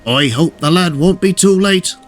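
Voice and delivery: sighing worry. A narrator's reading. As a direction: sigh out a worried hope. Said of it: "sighed Salty to Cranky".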